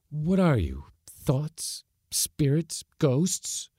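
high and tense; nervous rising queries; fearful questions. Acted. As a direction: grasp at what they are. Leonard questions spirits.

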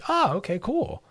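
high, light and easy; breezy okay. Shown as a demonstration. Host modelling an easygoing reply to a correction, high and breezy. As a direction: shrug it off cheerfully.

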